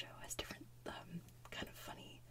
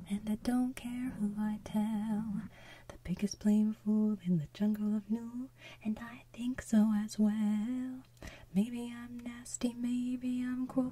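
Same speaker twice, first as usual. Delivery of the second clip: sour kangaroo song; 2 semitones lower, 6 dB louder than usual. Retold or imitated. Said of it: "the sour kangaroo comes in".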